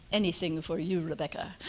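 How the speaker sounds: a hint of a French accent, fondly imitating. Fondly imitating her helper's French accent to the audience. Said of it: "in his French accent".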